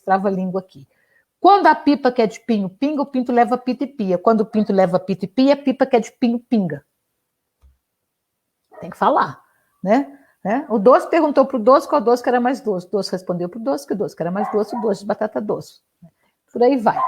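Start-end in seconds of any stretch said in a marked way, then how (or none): 1.4-6.8 loud, rhythmic tongue twister; tongue-twister recitation. Shown as a demonstration. Teacher shows a favourite trava-língua, loud rhythmic recitation. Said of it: "Um trava-língua bom, por exemplo". 10.7-15.8 quick, rhythmic tongue twister; tongue-twister recitation. Shown as a demonstration. Teacher gives another trava-língua example, brisk rhythmic recitation. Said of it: "Um trava-língua bom, por exemplo".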